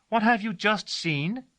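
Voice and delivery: high, slow call across the drive; a girl calling a friendly question to her servant; cried out. Acted. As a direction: call out friendly, like an old game. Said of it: "she cried".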